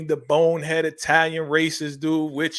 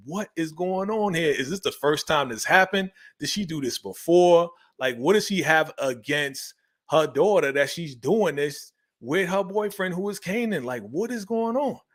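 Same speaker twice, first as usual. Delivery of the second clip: rising disbelief, pitch climbing higher line by line; mock disbelief; 3 semitones higher than usual. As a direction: stack up the questions, more baffled each time. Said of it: "I'm like".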